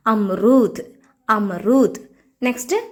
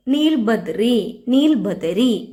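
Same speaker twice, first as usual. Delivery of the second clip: slow drill; much slower than usual. Shown as a demonstration. Teacher spells out Hindi blueberry for learners, very slowly. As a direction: stretch out നീൽബദറി very slowly, syllable by syllable.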